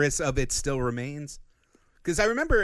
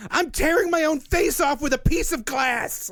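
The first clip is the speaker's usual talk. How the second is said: high mock Joker voice; 12 semitones higher, 3 dB louder than usual. Quoting dark Joker.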